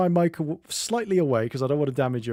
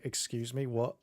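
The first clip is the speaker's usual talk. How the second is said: Marge impression; 9 dB quieter than usual. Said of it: "That's my Marge impression, her being mad".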